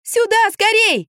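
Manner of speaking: high, drawn-out shout; trapped woman calling for help; urgent yell. A narrator's reading. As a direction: call them over urgently. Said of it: "завопила я".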